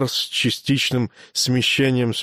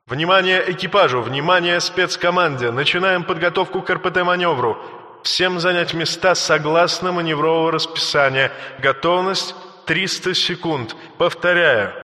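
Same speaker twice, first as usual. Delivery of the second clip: fast, higher announcement voice; calm ship computer; 5 semitones higher than usual. Acted. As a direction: rattle off the crew alert. Ship announcement over intercom.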